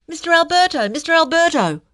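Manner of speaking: loud, high shouted calling. A narrator's reading. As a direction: shout across the crowd. Reporter calling across crowd.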